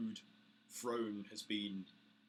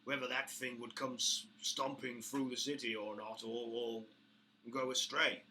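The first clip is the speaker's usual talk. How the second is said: orc boss, condescending; 3 semitones higher, 4 dB louder than usual. Acted. Orc boss agreeing to listen to Bramble, condescending. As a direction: grant him a hearing grudgingly.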